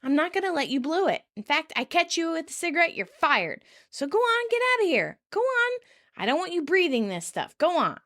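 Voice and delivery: mock chastising. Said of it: "Kim chastises".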